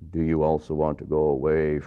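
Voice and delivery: a lightly voiced Jesus. Voicing Jesus' question.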